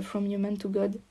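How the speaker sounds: English title with a French accent. Real, not acted. Podcaster naming an English channel to listeners, French accent. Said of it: "Je m'excuse pour mon accent anglais".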